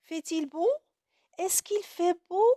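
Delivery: high rising questions; question demo. Shown as a demonstration. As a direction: ask it like you truly wonder. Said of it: "point d'interrogation". (question jouée, voix aiguë montante)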